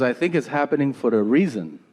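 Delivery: put-on Peruvian-accented mom making her case; mother's Peruvian accent. Mom explaining disasters to her son, Peruvian accent. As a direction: imitate a Peruvian mother's English. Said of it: "she's from South America".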